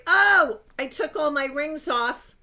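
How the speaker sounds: sharp high loud gasp of an oh; sudden surprise. Real, not acted. Vlogger realizing mid-rant her rings are off, startled oh.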